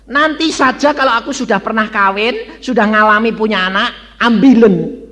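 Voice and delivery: loud, high-pitched bargaining prayer; retold prayer, pitched high and loud; praying to God. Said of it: "Saya berdoa kepada Tuhan".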